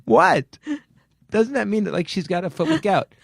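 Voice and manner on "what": real laughter breaking into the words; laughing disbelief. Real, not acted. Therapist reacting to the gout foot story, laughing in disbelief. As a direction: crack up, incredulous.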